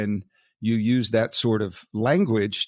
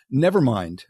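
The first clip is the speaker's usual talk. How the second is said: dry sarcastic never mind; 3 semitones higher, 4 dB louder than usual. Shown as a demonstration. Podcast host reading article snidely, with sarcastic intonation. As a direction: lean into the sarcasm, mock-dismissive. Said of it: "I hope you get the intonation that I'm giving here".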